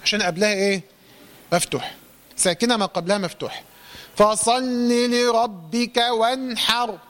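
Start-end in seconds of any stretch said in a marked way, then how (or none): 4.2-7.0 slow recitation. Shown as a demonstration. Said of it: "correct recitation demo".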